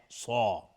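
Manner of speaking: صا said heavy, with a full, rounded mouth; heavy saad. Shown as a demonstration. Teacher repeating the correct heavy صا for students. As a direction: give صا a full mouth and a dark vowel.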